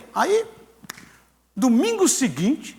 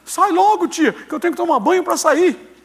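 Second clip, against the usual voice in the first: retold impatient calling; 8 semitones higher, 4 dB louder than usual. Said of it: "começou a bater na porta e falar".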